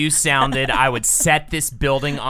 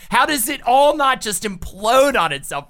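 exasperated; 5 semitones higher than usual. Retold or imitated. Exasperated imagined New Yorker.

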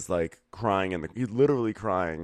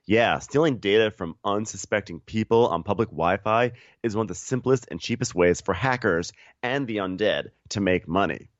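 scripted co-host sponsor read; podcast ad read; 3 semitones higher, 5 dB louder than usual. Real, not acted. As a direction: deliver the ad copy evenly and emphatically.

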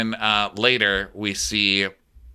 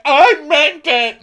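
acted line; 10 dB louder, slower than usual. Opening quote in a story.

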